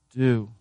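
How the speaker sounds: "Do" set apart alone as a command; single stressed command word; emphatic do. Shown as a demonstration. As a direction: hit "Do" firmly by itself. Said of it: "It's a command. It's emphatic".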